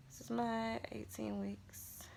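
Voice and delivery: softly whispered, fading to nothing; tender whisper. Real, not acted. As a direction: coo it like a secret. Cooing over her baby bump.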